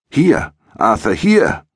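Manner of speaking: excited, high-pitched shout to a friend; calling out. A narrator's reading. William hails Arthur from across the street, calling out. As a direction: call loudly across the street. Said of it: "brüllte er".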